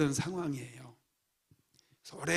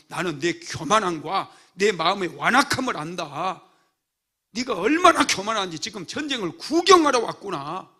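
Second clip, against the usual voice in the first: louder, rebuking like an angry big brother; scolding older brother; 2 semitones higher, 7 dB louder than usual. Retold or imitated. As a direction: scold the little brother hard. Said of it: "막 이러면서 책망을 하는 거예요". (꾸짖는 큰형 목소리)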